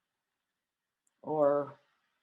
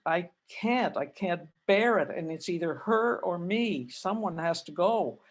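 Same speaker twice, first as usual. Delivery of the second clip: retold upset outburst; 4 dB louder than usual. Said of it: "I was crying and I was all upset".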